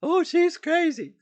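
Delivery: high, loud, slow mocking sneer at the doubters. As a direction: sneer it like a scornful gossip. Mocking people who call her crazy.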